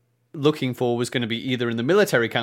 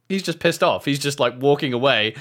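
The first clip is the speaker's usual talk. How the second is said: ordinary talk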